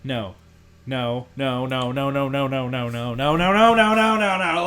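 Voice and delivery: mimicked panic. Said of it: "he literally went".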